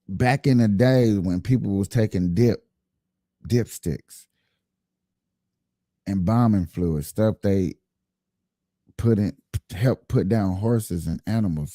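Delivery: stammering through the words; tripping over words, stuttering. Real, not acted. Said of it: "Sorry, I'm stuttering".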